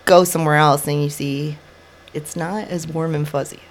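sniffling through a head cold; stuffy, sniffly voice from a cold. Real, not acted. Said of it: "sorry about the sniffling".

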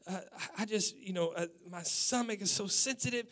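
high, indignant complaint; wife going off. Retold or imitated. Wife scolds husband over the cracker, high and indignant. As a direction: voice her outrage at the husband. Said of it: "she went off".

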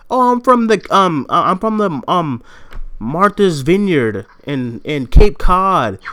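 high, halting imitation of classmates; quoted college classmates. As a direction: mimic them with stretched-out place names. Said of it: "motherfuckers that was from, like".

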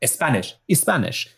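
trying out a Spanish accent. Shown as a demonstration. Player hunting for the voice, tentative Spanish accent. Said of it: "what does that Spanish accent sound like".

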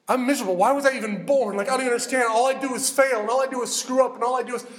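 a touch of self-pitying wail; gut-level lament. Acted. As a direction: run through the complaints like a venting prayer. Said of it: "that gut level real with God".

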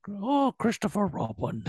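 high, soft Pooh bear calling; gentle honey-loving bear voice; Winnie the Pooh voice. Retold or imitated. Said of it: "Oh my God, that's it".

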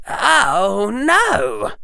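high, pained exclamation; as if the words are torn out of you; torn-out cry. A narrator's reading. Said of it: "sounding like the words had been torn out of him".

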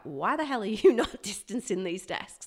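indignant mock telling-off; imagined indignant inspector. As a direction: play at being an appalled inspector, lightly. Imagined council inspector's angry challenge.

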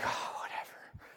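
whispered sulky dismissal, slow; mock sulk, all breath and no voice; unhappy kid. Disappointed son answering dad, sulky whisper. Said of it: "I'm not happy".

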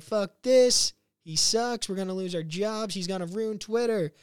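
high whiny rant ending in a loud cry; mock whining employee. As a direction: ham up a whiny complainer. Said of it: "stop your fucking whining".

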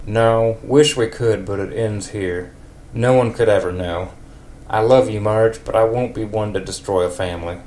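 a hint of a country neighbour. In a country accent, Ned tells Marge it was wonderful. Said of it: "a super country voice for Ned".

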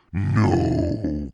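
loud, high anguished cry. A narrator's reading. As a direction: cry out in protest. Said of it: "Carly Beth cried".

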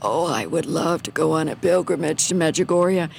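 lightly imitating a raspy, sickly voice; wistful plea with a hint of rasp; a touch of raspy pleading; retold raspy voice. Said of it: "in a very raspy voice".

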